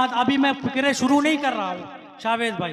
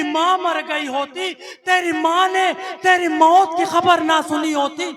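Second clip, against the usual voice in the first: weeping lament; 4 semitones higher, 4 dB louder than usual. Acted. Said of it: "वो रो के देख के नेजे पे कहती है".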